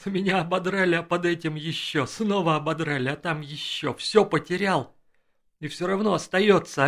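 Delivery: loud, gurgling laugh-filled outburst; gurgling through laughter. A narrator's reading. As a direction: spill the words out through helpless laughter. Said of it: "пробулькал он сквозь смех". (булькающий смех сквозь слова)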